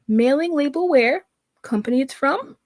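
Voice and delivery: mimicking her clueless questions; mocking her question. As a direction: sneer her questions up high. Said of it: "listen to how she writes".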